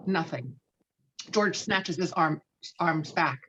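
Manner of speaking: ordinary delivery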